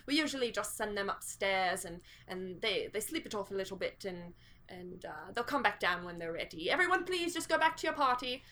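calm the crowd like a butler; reassuring butler. Acted.

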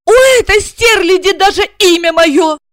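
high indignant cry; outraged. A narrator's reading. Wife fuming that the rival shares her name. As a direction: fume at the rival.

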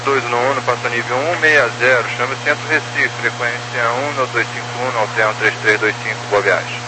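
tinny radio transmission; over walkie talkie. Real, not acted. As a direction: voice coming through a radio. Pilot call over radio link.

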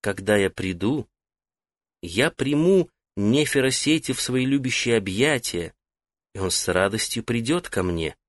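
soft, lilting goddess voice speaking through him; a lightly voiced woman, sung out gently; melodious female voice. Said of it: "заговорил не своим голосом, а мелодичным женским".

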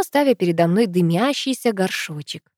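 plain reading voice

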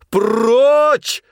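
high, held, loud «Прочь». A narrator's reading. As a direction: shout it longer and harder. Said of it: "закричал тогда Князев громче прежнего".

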